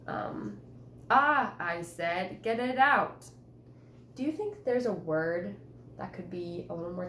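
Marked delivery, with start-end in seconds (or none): 1.1-1.5 startled cry. Shown as a demonstration. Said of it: "Like when I said". 2.4-3.3 mild panic. Shown as a demonstration. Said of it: "Like when I said".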